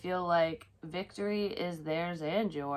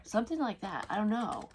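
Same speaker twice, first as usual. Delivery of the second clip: ordinary talk, nothing marked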